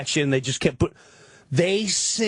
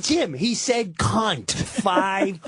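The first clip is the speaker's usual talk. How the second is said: slow incredulous wife; much slower than usual. Retold or imitated. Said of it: "She's like".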